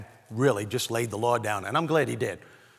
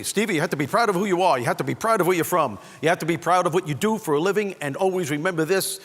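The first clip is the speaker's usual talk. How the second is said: lightly voiced emphatic dad, louder; father's advice; 5 semitones higher, 6 dB louder than usual. Dad lecturing his son Stevie on pride, lightly voiced earnest father. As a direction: lay it on like a proud dad. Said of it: "he'd say".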